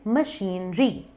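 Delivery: मशीनरी as "muh-sheen-ree"; slow, split syllables in मशीनरी, long ee; correct pronunciation. Shown as a demonstration. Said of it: "correct pronunciation है". (मशीनरी को "मशीन-री" बोलें)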